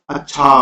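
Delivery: "अच्छा" pushed on the last syllable; intonation variant. Shown as a demonstration. Teacher showing ways to say one word, emphatic "अच्छा". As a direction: lean on the "छा" of "अच्छा". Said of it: "अच्छा को कैसे बोल सकते हैं".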